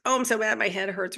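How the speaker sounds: half-hearted griping about aches; mock frustrated complaint. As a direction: imitate someone huffing at their own body. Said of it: "So we don't go".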